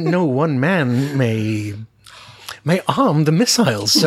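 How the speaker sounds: Tim Curry line imitated. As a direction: play it like a fussy officer dragging out the warning.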